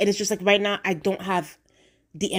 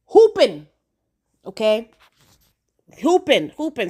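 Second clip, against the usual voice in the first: gleeful taunt; 2 semitones higher, 5 dB louder than usual. Real, not acted. Gleeful jab at Ormond.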